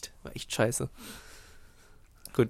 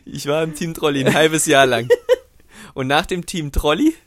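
laughing; 5 dB louder than usual. Real, not acted. Laughing while confessing.

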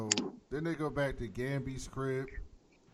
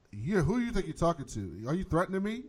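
indignant, higher-pitched challenge; acted confrontational retort; 6 semitones higher, 4 dB louder than usual. Recapper voicing the principal challenged by Jefferson, indignant. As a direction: square up to him, pitch raised. Retold quarrel, principal pushes back.

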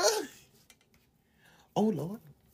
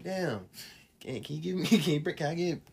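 laughing; 2 semitones lower, 5 dB quieter than usual. Real, not acted. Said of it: "say it with a straight face".

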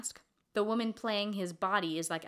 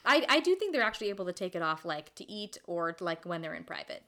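through a face mask; 3 dB louder than usual. Real, not acted. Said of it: "I'm wearing a mask right now".

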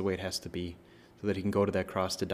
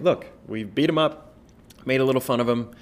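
Pilate pleading; 4 semitones higher, 5 dB louder than usual. Retold or imitated.

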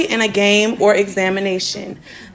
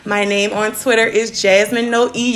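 put-on little white girl voice. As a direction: put on a prim valley girl voice. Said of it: "that little white girl voice I'm putting on".

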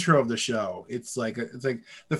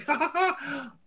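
imitating baby laugh; 12 semitones higher than usual. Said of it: "And he's like".

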